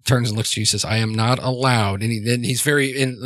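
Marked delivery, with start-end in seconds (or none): 0.8-2.0 evenly measured, rehearsed statement; metered pace. Acted. Father explaining himself to Joe, metered and well-rehearsed. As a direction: recite it evenly, word by measured word. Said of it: "in, like, a very metered pace".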